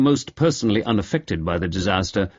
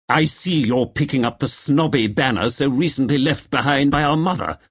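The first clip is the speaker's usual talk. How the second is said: fuming; 4 semitones higher than usual. Acted. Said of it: "Lester fumed".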